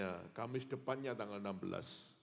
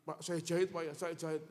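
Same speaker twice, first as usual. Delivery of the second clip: loud call to patient; 7 semitones higher, 6 dB louder than usual. Retold or imitated. Doctor telling patient about stitches.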